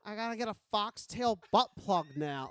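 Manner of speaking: put-on bored Valley Girl accent; whiny Valley Girl accent. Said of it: "you went with a Valley Girl accent".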